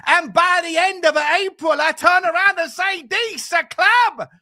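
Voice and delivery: loud, hammed-up Italian manager accent; emphatic, drawn-out Italian accent. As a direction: rant in comic Italian English, stretching the punchline. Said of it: "doing an Italian accent again".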